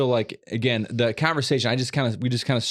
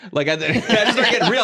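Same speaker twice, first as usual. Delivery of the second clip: laughing; 9 semitones higher, 4 dB louder than usual. Real, not acted.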